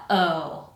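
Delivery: OH let out after a throat stop; released air. Shown as a demonstration. Teacher finishes the uh-oh example, released air. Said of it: "and then let it out".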